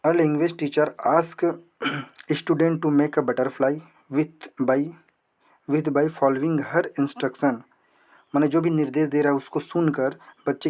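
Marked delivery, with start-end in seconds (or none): 0.0-7.6 very slow, word-by-word dictation reading; reading the question aloud. Acted. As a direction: read each word slowly for students to follow. Reads exam question aloud. (प्रश्न को बहुत धीरे-धीरे पढ़ना)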